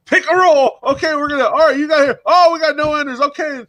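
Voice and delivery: high, loud mock streamer patter; imitating the streamer opening rolls. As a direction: ham up the coin streamer. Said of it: "he's like".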